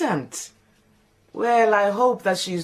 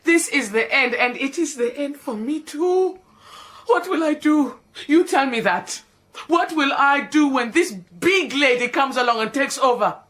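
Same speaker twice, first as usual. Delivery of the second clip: melodramatic lament; 2 semitones higher than usual. Acted. Lamenting her end.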